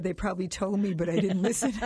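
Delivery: chuckling through the punchline; laughing. Retold or imitated. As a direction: laugh as you deliver it. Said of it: "And then I said".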